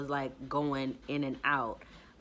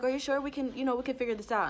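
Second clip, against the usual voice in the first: mock driver; 8 semitones higher, much faster than usual. The driver's reply, voiced.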